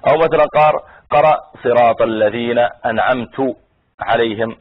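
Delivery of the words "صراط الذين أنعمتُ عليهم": أنعمت ending in a damma, "an'amtu"; mistaken recitation. Shown as a demonstration. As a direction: slowly misread أنعمت as first-person "an'amtu". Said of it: "هذا بلا شك أنه خطأ".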